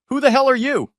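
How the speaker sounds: loud, very high startled demand; slightly cracking voice. A narrator's reading. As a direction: demand it loudly, pitch jumping up. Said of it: "Dad's voice cracked slightly".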